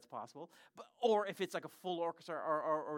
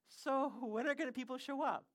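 carefully polite, higher-pitched question; gentle asking; 9 semitones higher, 3 dB louder than usual. Retold or imitated. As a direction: imitate yourself asking a pastor as gently as possible. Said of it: "in the most gentle way possible".

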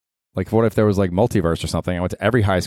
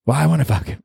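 put-on girlfriend voice; 6 semitones higher, faster than usual. Girlfriend voice punchline.

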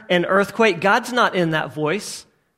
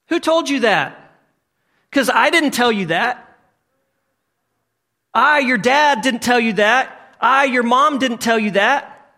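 raised-pitch pulpit urging; emphatic preacher voicing a parent; insistent preaching; 4 semitones higher than usual. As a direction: press the question like an insistent parent. Preaches a parent's answer to a child.

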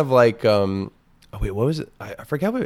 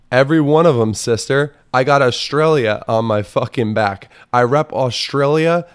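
mock proud boast; 4 semitones higher, 4 dB louder than usual.

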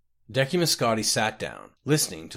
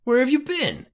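loud, sharply higher angry demand; 5 dB louder than usual. A narrator's reading. Eurus confronts his old colleague Scotty, loud high demand. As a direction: snap it at him, furious he's late. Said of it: "Eurus demanded again".

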